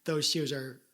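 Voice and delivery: low, deliberate mock praise; sarcastic insistence. Shown as a demonstration. Insisting to cohost about Sarah's shoes, sarcastic. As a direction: insist insincerely, pausing before the final compliment. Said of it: "I'm not even good at sarcasm".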